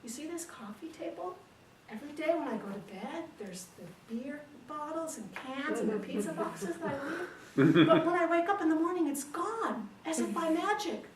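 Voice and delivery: high-pitched, building amazement; naive wonder. Acted. Husband explaining the magic house to wife, amazed.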